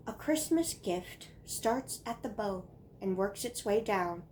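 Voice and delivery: measured recitation with pauses between lines; poem reading. Acted. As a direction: recite a child's earnest Christmas poem. Reads childhood poem aloud.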